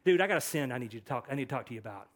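rushed, blurted approach; hurried mock confrontation; hasty confrontation. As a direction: blurt it out quickly to a buddy. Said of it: "immediately after this and go".

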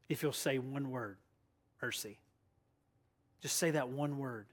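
low, soft coaxing of a prisoner; quiet urging. Acted. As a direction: lean in and softly offer a way out. Guard urges tortured prisoner.

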